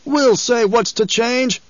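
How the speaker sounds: high, slow, defiant cry; angry voice. A narrator's reading. A man in the cavern's corner defying Paul, angry. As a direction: lift your voice in anger. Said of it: "An angry voice lifted".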